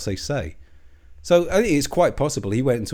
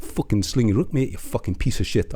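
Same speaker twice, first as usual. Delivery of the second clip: put-on poor Geordie accent. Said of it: "this is a pretty poor accent".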